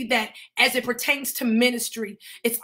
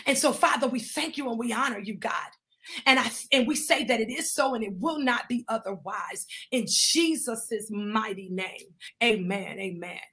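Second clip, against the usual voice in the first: closing prayer; 3 dB quieter than usual. Real, not acted. Sealing a prayer in Jesus' name, winding down. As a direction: bring the prayer gently down to rest.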